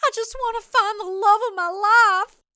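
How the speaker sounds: high, excited, rambling suitor; hopeless romantic, pleading; eager dorky guy. Acted. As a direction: babble it all out in one breath. Matthew rambling about astrology.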